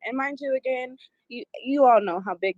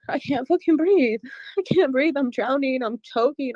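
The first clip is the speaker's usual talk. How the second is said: high panicked gasps, choking; 3 semitones higher than usual. Retold or imitated. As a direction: cry it out like drowning.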